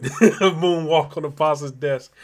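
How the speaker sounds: chuckling through the words; laughing at a viewer's joke; laughing while reading. Real, not acted. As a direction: read it out mid-laugh.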